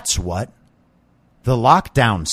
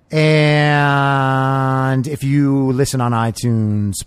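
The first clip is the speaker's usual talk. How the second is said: slow, smooth radio DJ voice; 2 semitones higher, much slower than usual. Pretend. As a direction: read it like a late-night radio host. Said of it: "Did I sound like a, a, a proper radio D J".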